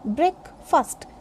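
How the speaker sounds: breakfast as BREK, fust, in two parts; correct pronunciation. Shown as a demonstration. Teacher breaking down breakfast, BREK-fust. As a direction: split breakfast into two short syllables. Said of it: "This is breakfast".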